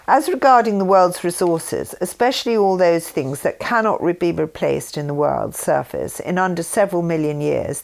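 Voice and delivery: calm formal reading of a written text; reading aloud. Acted. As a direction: read the document steadily, like a formal statement. Reads the text again.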